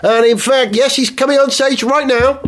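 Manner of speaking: excited live TV reporter voice; mock reporter.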